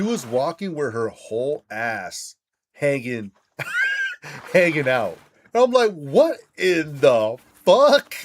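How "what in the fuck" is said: long, drawn-out disbelief, louder; stunned disbelief. Retold or imitated. At the sight of the lady on the street, stunned and slow. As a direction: stretch each word in shock. Seeing the stranger's bare behind.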